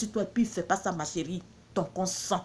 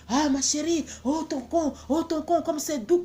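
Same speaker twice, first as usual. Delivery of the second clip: higher, mock-passionate lover's cries; mock moaning man; 5 semitones higher than usual. Woman mimicking a lover crying out in bed. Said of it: "Il y a d'autres qui crient".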